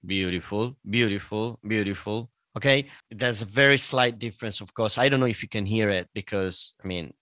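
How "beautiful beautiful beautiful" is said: from the diaphragm. Shown as a demonstration. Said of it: "from my diaphragm".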